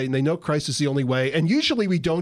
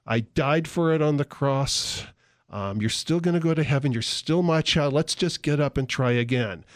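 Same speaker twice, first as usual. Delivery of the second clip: forgiving God. Acted. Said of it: "God goes".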